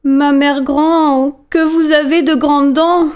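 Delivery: put-on a curious child asking slowly; wondering little girl. Girl questions the wolf.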